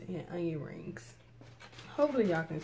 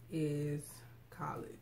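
talking through a mouthful; words round a bite of food; mouth full; 4 semitones lower, 8 dB quieter, slower than usual. Real, not acted. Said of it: "I'm gonna be talking with my mouth full".

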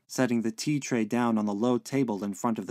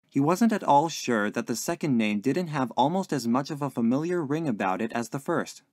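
ordinary delivery, nothing marked

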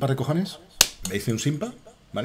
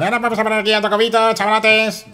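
streamer impression; 10 semitones higher, 4 dB louder than usual. Mocking a Minecraft streamer.

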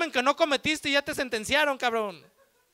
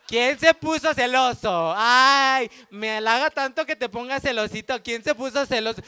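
teasing laugh; 4 dB louder than usual. Acted. Girlfriend mocking jealous boyfriend.

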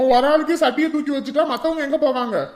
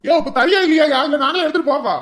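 raised-voice demand; impatient shouting; 4 dB louder than usual. Acted. Arumugam demanding food from the server, shouting impatiently. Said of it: "கத்திட்டு இருக்காத ஆறுமுகம்".

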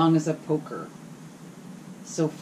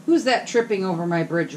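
mild troll roar; 2 semitones higher, 4 dB louder than usual. Acted. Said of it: "roared the troll".

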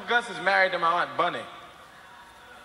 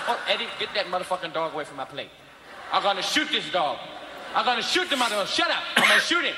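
put-on angry drunk dad. Father yelling about dog.

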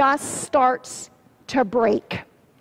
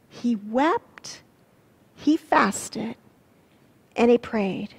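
much softer, slow echo; hushed repeat; 2 semitones lower, 5 dB quieter, slower than usual. Shown as a demonstration. Pastor repeating the verse to the congregation, hushed. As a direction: let it sink in, almost hushed.

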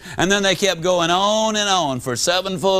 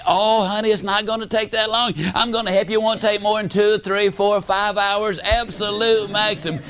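coaxing wife; 3 semitones higher than usual. Retold or imitated. Wife coaxes husband.

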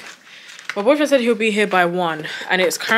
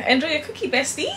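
higher, sing-song card quote; quoting the card; 7 semitones higher, faster than usual. Shown as a demonstration. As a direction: read it out in the friend's bright tone. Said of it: "Because it's".

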